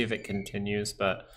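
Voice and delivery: hiccuping mid-sentence; hiccups. Real, not acted. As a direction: talk through the hiccups. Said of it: "sorry, hiccups".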